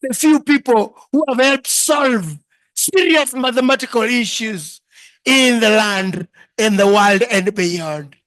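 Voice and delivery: grand, slow self-important showing off; mock grand self-introduction, hammed up; pompous boasting. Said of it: "ningekuwa najiintroduce".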